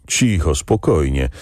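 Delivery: gentle soothing. Acted. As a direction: soothe him lightly, as you would a child. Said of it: "Przemówił łagodnie, jak do dziecka".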